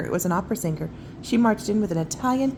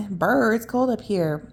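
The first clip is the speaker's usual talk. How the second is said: shivering; 2 semitones higher, 6 dB louder than usual. Acted. Uncle shivering on tree.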